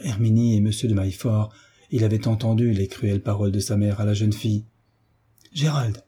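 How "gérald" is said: cri aigu et surpris, un peu plus haut; cri stupéfait. Acted. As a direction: lancez le nom, saisi de stupeur. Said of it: "s'écria le marquis stupéfait". (Gérald crié de stupeur)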